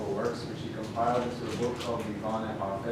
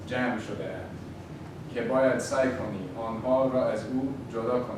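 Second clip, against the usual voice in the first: louder, theatrical fortune reading; right in your ear; 3 dB louder, faster than usual. Acted. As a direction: read the fortune like a soothsayer. Reads the fortune aloud.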